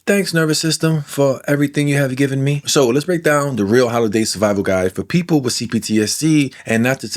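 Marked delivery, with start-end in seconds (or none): 0.1-2.6 sarcastic thanks. Retold or imitated. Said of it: "you can be like".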